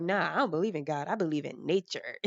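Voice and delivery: quick, cheeky brush-off; cheeky kid. Retold or imitated. Kid teasing her Baptist family, quick cheeky brush-off. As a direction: toss it off like a smug child. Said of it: "I thought it was so funny".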